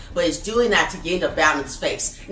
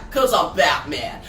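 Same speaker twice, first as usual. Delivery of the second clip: Batman line; 4 semitones lower than usual. Retold or imitated. Comic book recap, Batman jumps up.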